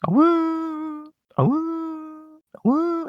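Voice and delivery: high loud repeated howls; wolf howl. Retold or imitated. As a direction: howl like Arcanine. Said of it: "he just howls constantly".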